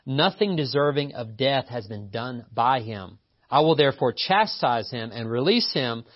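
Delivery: emphatic, measured Bible reading; declaimed passage with stressed key words; scripture reading. A narrator's reading. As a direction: read scripture out to a congregation. Reads scripture aloud to congregation.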